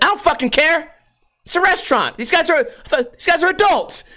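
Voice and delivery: high-pitched indignant retort; imitated loud girlfriend. Girlfriend defying boyfriend at restaurant, mock loud. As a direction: mimic her arguing for everyone to hear. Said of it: "she'll get loud as fuck".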